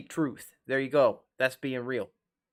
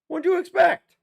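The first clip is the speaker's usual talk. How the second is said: loud exasperated; 8 dB louder than usual. Retold or imitated. Heated lecture to cheating friend.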